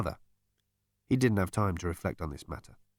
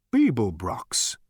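amazed gasp; much slower than usual. A narrator's reading. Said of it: "gasped Gargravar's mind in amazement".

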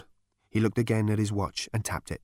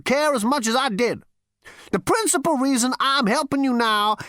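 put-on high, wagging old ghost; old great-grandfather voice; 3 dB louder than usual. A narrator's reading. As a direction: lecture the lad like a weary ancestor.

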